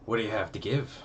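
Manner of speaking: lilting Irish leprechaun voice; a light Irish lilt. Acted. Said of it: "I made him sound kinda like a leprechaun".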